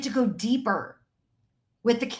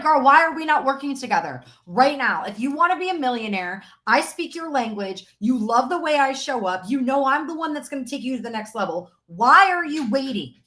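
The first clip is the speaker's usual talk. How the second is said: 1 mock sales pitch. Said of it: "It's like".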